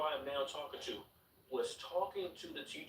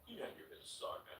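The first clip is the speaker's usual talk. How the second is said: much softer, hushed teacher's aside; whispered apology; 4 semitones higher, 10 dB quieter, faster than usual. Retold or imitated. Teacher quietly excusing himself to the student, hushed. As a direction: say it under your breath. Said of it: "so he's like".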